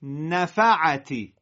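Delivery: نفعتی slow and loud, syllables held apart. Shown as a demonstration. Teacher leads the class through نفعتی slowly, syllable by syllable. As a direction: lay out نفعتی beat by beat. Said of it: "با هم بگین".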